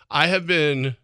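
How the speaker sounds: ordinary delivery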